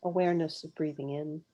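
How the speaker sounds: unhurried meditation guide, long pauses between phrases; guided meditation. Real, not acted. Guide leading live listeners through a mindful pause, guided meditation. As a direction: guide listeners gently inward, phrase by phrase, leaving space to breathe.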